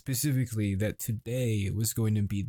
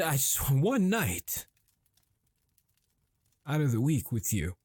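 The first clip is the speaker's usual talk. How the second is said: frustrated yelling; 3 semitones higher than usual. Acted. Husband pleading with his wife, yelling in frustration. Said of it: "I am sorry for yelling".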